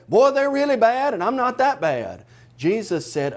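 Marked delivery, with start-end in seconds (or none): 0.1-2.2 higher, lightly mocking smug tone; mock the one comparing himself to others; smug self-righteous quote. Preacher mimics a churchgoer judging others, mildly mocking. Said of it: "stop looking at other people and say".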